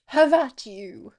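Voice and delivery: hammed-up duelling cry; battle challenge. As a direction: shout it like a challenger, drawn out. Voices a character's battle challenge.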